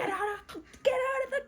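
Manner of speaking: high-pitched mock panic; hammed-up evacuation cry; urgent warning. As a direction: urge everyone out in a high voice. Clan fleeing a falling tree.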